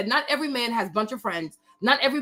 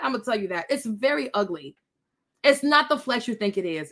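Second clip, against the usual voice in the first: ordinary talk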